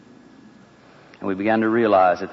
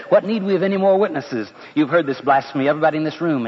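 indignant accusation; 4 semitones higher than usual. Acted. High priest rallies room against Jesus.

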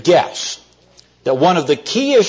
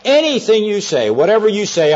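higher-pitched eager call back; mild mock yell; 6 semitones higher than usual. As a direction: yell back without much volume. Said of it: "Beetle yells back".

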